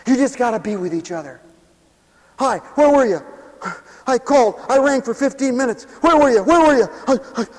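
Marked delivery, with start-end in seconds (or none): 2.4-7.5 a hint of an anxious nagging friend, rising as it goes; clingy nagging friend. Clingy friend scolds the other for not answering, anxious nag.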